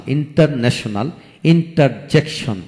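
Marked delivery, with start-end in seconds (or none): 1.4-2.6 ইন্টারজেকশন slowly in separate beats; syllable by syllable. Shown as a demonstration. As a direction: break ইন্টারজেকশন into its parts. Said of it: "যে word তিনের অধিক syllable থাকে".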